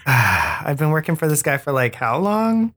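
exasperated assistant; sighing Tuck. Acted. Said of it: "lets out a sigh, like".

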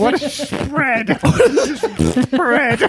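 laughing through the words; cracking up mid-phrase. Real, not acted. Repeats while laughing.

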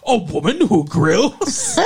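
slow, laughing mock announcer read; infomercial announcer. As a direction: ham it up like a TV ad. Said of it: "like an infomercial announcer or something".

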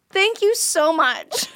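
slow, cooing thanks; playfully cutesy pet talk; talking to a cat. Pretend. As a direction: draw it out as if to a pet. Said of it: "like you talk to your cat".

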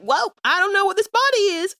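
high-pitched startled character voice; character's startled reaction. Acted. Player voicing her transformed character, high and startled. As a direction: exclaim it high, in bewildered surprise. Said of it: "and she's like".

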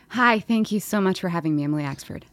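mock-polite thanks, dropping low on the name; polite guest answer. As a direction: recite a courteous podcast greeting. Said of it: "Everyone give me their polite answers".

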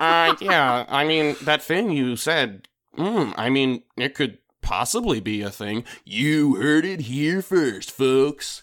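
slow, hammy TV expert; pompous pundit on a documentary. Pretend. Parodies interviewed author.

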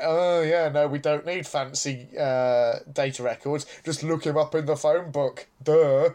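put-on smugness with a punched last word; smug. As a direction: imitate someone smugly dismissing fancy methods. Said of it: "be so smugly like".

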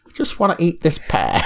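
high, airy thought voice; inner voice. Retold or imitated. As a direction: voice a sudden craving, high. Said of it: "And I was thinking".

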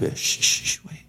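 put-on dad shushing the kids to look at a building; shushing whisper. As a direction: hush the kids while staring up. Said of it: "he would start muttering to himself".

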